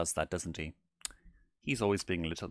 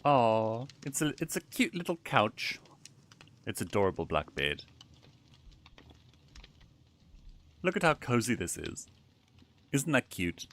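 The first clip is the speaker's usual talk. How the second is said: cooing. Real, not acted. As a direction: coo like at a puppy. Cooing at a cute couch.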